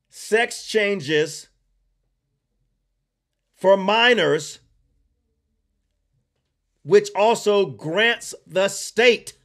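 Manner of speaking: slow, spaced out, each phrase left hanging; said slowly. Shown as a demonstration. Repeating the bill slowly to viewers, slow and deliberate. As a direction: spell it out slowly for the people in the back. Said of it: "Let me say it slow for people in the back".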